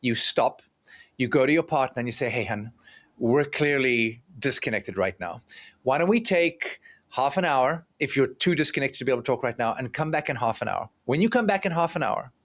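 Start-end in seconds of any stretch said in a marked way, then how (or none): 2.3-10.9 soft, calm voice. Retold or imitated. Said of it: "You soften your voice".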